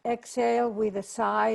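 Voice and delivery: gentle Zoom meditation lead; guided meditation. Acted. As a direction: guide the group into calm.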